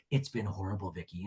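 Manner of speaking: low, soft mock misery; lightly voiced, subdued complaint; Jen. Jen confiding in Vicky, soft mock misery. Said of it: "And Jen is like".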